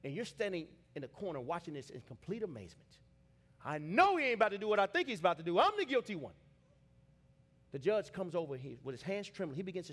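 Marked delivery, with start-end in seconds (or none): 3.6-6.3 shocked disbelief. Acted. Guilty onlooker's amazed inner cry.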